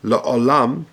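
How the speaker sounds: "La'olam" with a kamatz "o" under the ayin, "la-O-lam"; careful pronunciation. Shown as a demonstration. Teacher demonstrating a Kaddish word to the class. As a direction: give "La'olam" its full "o" sound after the "la". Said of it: "Bekomatz Tachas Ha'ayin".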